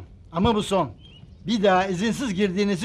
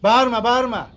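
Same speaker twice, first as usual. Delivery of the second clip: stern scolding; 5 dB louder than usual. Acted. Guard scolding the shouting vendors.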